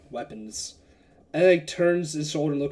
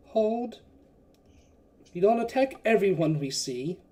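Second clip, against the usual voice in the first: lightly put-on Scottish holy man, slightly raised; a hint of Scots in a priest's command; mild William Wallace; 4 semitones higher than usual. Holy man halting his mercenaries, mild Scottish voice. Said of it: "very mild William Wallace".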